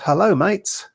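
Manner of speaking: lightly put-on Australian accent. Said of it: "but not in an Australian accent, which for some reason I gave".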